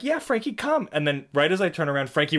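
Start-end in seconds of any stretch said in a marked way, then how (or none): 0.0-0.9 much higher, excited call; calling the dog. Retold or imitated. Coaxing the runaway dog back, high excited call. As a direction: sing out to coax the dog in. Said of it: "I'm like".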